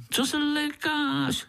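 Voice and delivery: high, slow, laughing taunt; giggling mosquito; teasing laugh. Acted. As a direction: laugh at his fright. Mosquito teasing frightened Pája.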